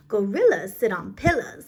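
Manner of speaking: "pillars" said as pillas, the R dropped to rhyme; pillars without the R. Shown as a demonstration. Teacher dropping the R in "pillars" for the rhyme. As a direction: say "pillars" with no R sound. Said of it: "I still gotta say it like this".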